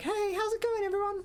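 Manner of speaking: sunny, very high, overly cheerful voice. Mocking a woman who is too cheerful, in a mock-cheerful high voice. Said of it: "Anyone who's too cheerful and like".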